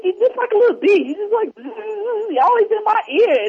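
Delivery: high camp voice, playful and teasing, laughing through it; mock flamboyant gay voice. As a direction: ham it up as a flamboyant shopper. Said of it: "dressing up like they were gay".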